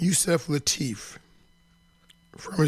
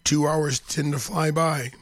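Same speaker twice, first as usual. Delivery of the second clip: just-woke-up morning voice. Real, not acted. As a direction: talk with your morning voice. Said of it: "as you can hear, I've got my morning voice going on".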